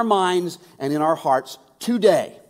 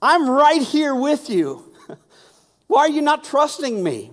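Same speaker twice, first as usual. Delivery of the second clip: pleading Jesus; 7 semitones higher, 5 dB louder than usual. Retold or imitated. Jesus pleading with frightened disciples, louder and higher. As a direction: plead with them to trust.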